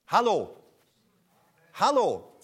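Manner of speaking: loud call to wake the room; hey, is anyone awake. Real, not acted. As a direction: shout hello to rouse them. Calling out to the crowd.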